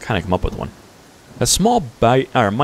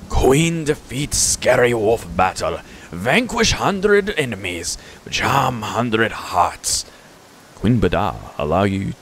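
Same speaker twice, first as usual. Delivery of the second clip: very slow, boastful creature voice; drawn-out comic goblin proclamation; goofy goblin; slower than usual. Acted. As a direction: herald the queen in silly pomp. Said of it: "kind of a goofy goblin kind of character".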